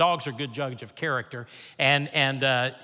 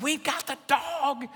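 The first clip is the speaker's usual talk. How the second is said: calling out; 11 semitones higher, slower than usual. Retold or imitated. Waving to the man down the block.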